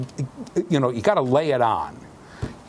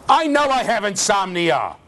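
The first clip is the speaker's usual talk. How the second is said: mock scream; 9 semitones higher, 3 dB louder than usual. Shown as a demonstration. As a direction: bellow it like a fed-up patient. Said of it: "When I scream, it means it's important".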